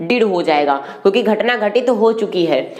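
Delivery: usual speaking voice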